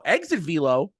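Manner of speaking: scornful rising echo of exit velo; mocking echo. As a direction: toss exit velo back as a ridiculous excuse.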